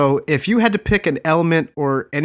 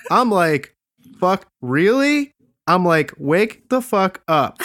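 quoting Zack Snyder; 5 semitones higher than usual. Retold or imitated. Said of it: "But he says".

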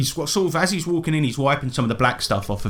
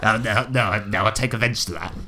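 lightly voiced offended little king, a bit lower; King of the Gibbermen; 3 semitones lower than usual. King objecting to the insult, mildly offended. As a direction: play a mildly affronted ruler. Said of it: "points over at King of the Gibbermen. He goes".

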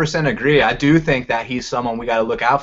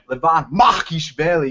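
"Levan Makishvili" given weight on each part; emphasis on the name. Shown as a demonstration. Host shows how to hype the fighter's name, with emphasis. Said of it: "You gotta put some emphasis into that".

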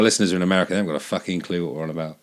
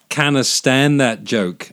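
Scottish accent; 4 semitones higher, 4 dB louder, much slower than usual. Shown as a demonstration. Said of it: "works better in a Scottish accent".

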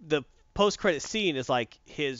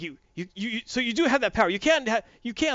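higher, louder stammering excitement; excited kid; 9 semitones higher, 5 dB louder than usual. Retold or imitated. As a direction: stammer in awe at the discovery. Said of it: "And the kid's like".

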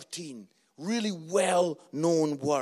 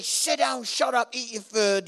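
retold shouting; 3 semitones higher, 5 dB louder than usual. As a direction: retell an angry dad's orders, voice raised. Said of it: "we're shouting at each other".

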